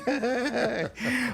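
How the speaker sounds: high trumpeting elephant call through the nose. Pretend. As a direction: blast out a playful elephant trumpet. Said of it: "that's my elephant impression".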